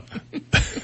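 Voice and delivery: high, comic horse whinny; whinny like a startled film horse; imitated horse neigh as a gag; mock horse whinny. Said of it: "the horse whinnied".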